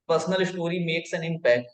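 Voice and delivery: normal talking voice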